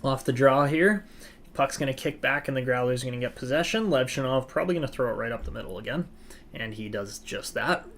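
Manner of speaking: lively hockey play-by-play call; sports commentator narrating the rush. Acted. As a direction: call the action as it happens. Live play-by-play of the game.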